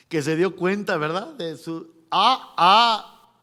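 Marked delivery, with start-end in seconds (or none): 2.1-3.3 loud, hammed-up gasps of dismay; mock trembling fear. Paul realising his mistake, hammed-up fearful dismay. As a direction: act out a startled realisation with loud wails. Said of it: "Temblando y temeroso".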